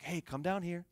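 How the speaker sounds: soft, gentle coaxing; soothing. Retold or imitated. Uncle coaxing scared nieces off the rock, soothing. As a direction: coax softly without any alarm. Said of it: "He has a soothing voice for him".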